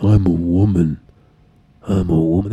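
low, loud mock woman's voice; deep-voiced Donna impression. Mocking Laura Prepon on the mic, loud deep impression. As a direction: lean into the mic and boom it. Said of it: "I'm, like, really into that mic".

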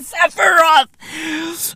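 drawn-out, very slow shouted name; dramatic slow shout. Acted. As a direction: announce the dreaded boss with awe. Dramatic naming of the boss.

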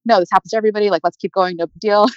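lightly imitated breezy brush-off; seemingly fine. Mom brushing off daughter's miscarriage, mildly breezy imitation. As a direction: retell it as an easy, no-big-deal dismissal. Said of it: "she seemed fine".

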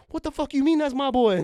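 high, indignant mock outrage; hammed-up disbelief; incredulous. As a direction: act shocked at the uncle. Indignant retold reaction to uncle.

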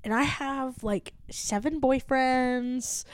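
soft, slow TikTok voice; mild take on a TikTok sound clip; imitating TikTok sound. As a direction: quote the viral clip softly and slowly. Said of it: "that one sound on TikTok".

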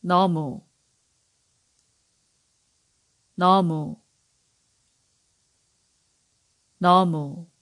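너무 said clearly, neo-mu, for learners to copy; careful Korean demo. Shown as a demonstration. Teacher modelling 너무 for listeners to repeat. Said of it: "I'm gonna repeat it three times. Listen carefully".

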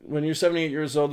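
lightly put-on British grandpa; slightly hammed-up British accent. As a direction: read it with a mock British accent. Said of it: "I don't know why he's British".

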